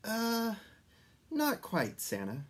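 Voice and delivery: high, hesitant little elf voice. A narrator's reading. Elf telling Santa something is wrong, hesitant. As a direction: break it gently to Santa. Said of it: "said the little old elf".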